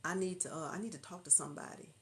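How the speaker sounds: lightly acted, sheepish phone caller; mock-embarrassed caller; hesitant caller. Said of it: "you thinking somebody calling on phone talking about".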